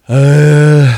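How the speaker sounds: acted groan of giving in; exasperated groan. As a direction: groan it out long, high and loud. Acting out grudging acceptance.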